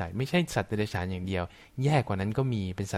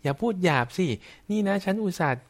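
mock scolding; 7 semitones higher than usual. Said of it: "แต่บอกคนอื่นว่า".

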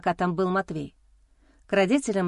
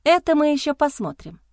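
higher, louder defiant retort; spat back; 6 semitones higher, 4 dB louder than usual. A narrator's reading. Wife spits a defiant answer at her husband. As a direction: fling it back at him. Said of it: "выплюнула я ему в ответ".

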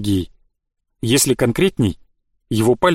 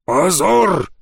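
barked order; 6 semitones higher than usual. Acted. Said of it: "гаркнули в шатре".

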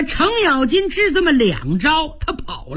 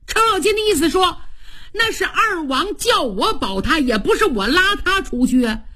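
aggrieved protest; 4 semitones higher than usual. Acted. Cheng Yaojin protests being scolded.

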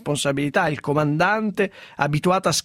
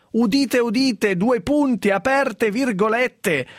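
town crier; 5 semitones higher, slower than usual. Pretend. Mock announcement of a quote.

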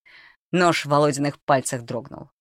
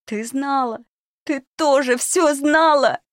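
much higher, louder, slow hysterical accusation; furious accusation; 12 semitones higher, 5 dB louder, slower than usual. Acted. Girl accuses the old cook of knowing, shrill fury. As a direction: scream the betrayal at her.

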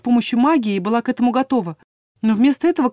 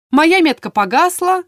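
higher, louder and slower; insistent; 8 semitones higher, 6 dB louder than usual. A narrator's reading. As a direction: press the point hard. Heroine insisting to king.

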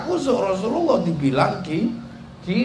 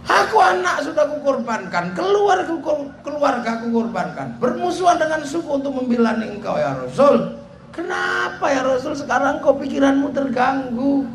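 crying plea; 5 semitones higher than usual. Retold or imitated. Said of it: "sambil nangis".

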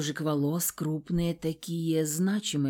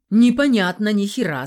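louder, harsh shout; angry retort; 4 semitones higher, 9 dB louder than usual. A narrator's reading. Nikolai shouting back at the heroine, angry. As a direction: fling it back at her.

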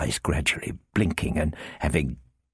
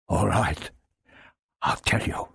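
stammered. Acted. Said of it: "he stammered".

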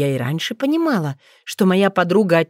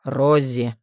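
tired sigh; 5 semitones lower than usual. Acted. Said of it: "устало вздохнул Таиф".

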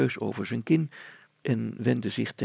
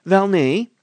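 higher, louder, deliberate village grocer; thoughtful grocer; 8 semitones higher, 12 dB louder than usual. Acted. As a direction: recall it slowly, weighing each detail. Grocer objects.

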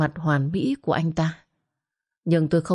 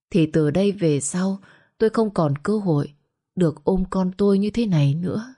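plain reading voice

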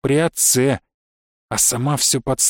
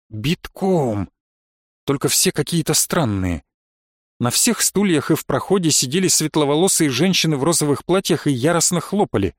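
plain reading voice

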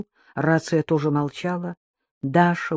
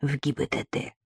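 whispering on the phone; 3 semitones lower, 6 dB quieter than usual. Acted. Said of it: "Георгий продолжал шептать".

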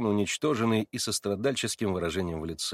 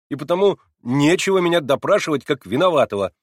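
higher and louder, hurt and insistent; heated protest; 9 semitones higher, 9 dB louder than usual. A narrator's reading. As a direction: protest like a wronged young man. Alyosha's heated outburst. (горячо, обиженно, громче и выше)

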